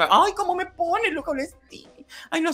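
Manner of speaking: mock man-crazy harpy swooning; harpy gushing. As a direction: camp it up as a lusty rival. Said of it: "en plan arpía".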